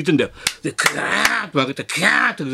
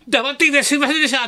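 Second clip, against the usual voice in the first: high, strained mock confession; hammed-up high-pitched apology; confessing taxi driver; 10 semitones higher than usual. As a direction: imitate an overwrought driver blurting out an apology. Driver's sudden confession, imitated.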